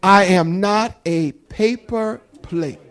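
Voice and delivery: said slowly and carefully, no rush; slow down and space out each word. Shown as a demonstration. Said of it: "I gotta catch myself".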